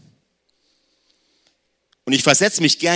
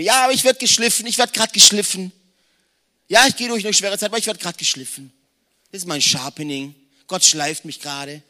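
hoch und laut, dann gedehnt leidend; Märtyrerpose; 5 semitones higher than usual. Pretend. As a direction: spiel den übertriebenen Dulder mit Kreuz. Parodierter frommer Dulder. (ein frommer Christ ziert sich leidend vor Gott)

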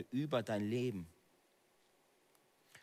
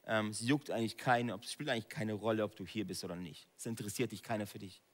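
whispering enemy voice; 3 semitones lower, 4 dB quieter than usual. Acted. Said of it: "diese Stimme ... dass dir sagt".

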